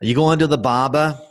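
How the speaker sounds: put-on Brooklyn accent. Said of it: "I'm in a Brooklyn mood today".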